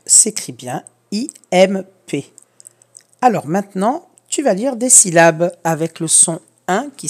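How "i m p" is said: slow spelling out. Shown as a demonstration. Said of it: "spelling out the letters".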